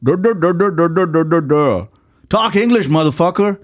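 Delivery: high-pitched, jeering imitation of a heckling host; hammed-up high voice ridiculing someone's accent; mocking host. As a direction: babble mockingly, then jab the insult. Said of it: "and then he says".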